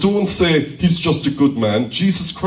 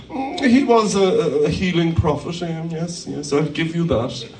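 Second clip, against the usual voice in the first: grudging concession. Retold or imitated. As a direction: hem and haw as you imitate a grudging admission. Voices a grudgingly generous sceptic.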